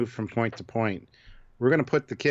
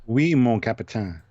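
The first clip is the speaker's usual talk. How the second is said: slow, hammed-up French accent; 4 dB louder than usual. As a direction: put on a mock French accent for the captain. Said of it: "go into French accent".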